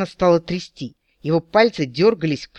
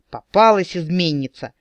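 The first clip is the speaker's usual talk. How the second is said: triumphant exclamation; 3 dB louder than usual. Acted. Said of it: "воскликнул капитан победно".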